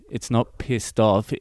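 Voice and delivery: "not" hit firmly, said slowly; stress on not. Shown as a demonstration. Host correcting foreign listeners with stress on not. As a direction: lean on NOT to correct them. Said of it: "for our international listeners".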